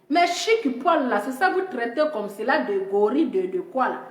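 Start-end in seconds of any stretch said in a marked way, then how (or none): 0.1-1.1 slow lament. Acted.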